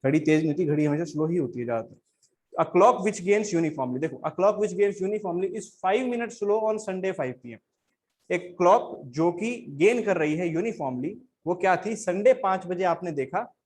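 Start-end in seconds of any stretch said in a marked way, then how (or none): 2.6-7.6 slow dictation-style reading. Shown as a demonstration. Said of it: "reads question slowly, word by word".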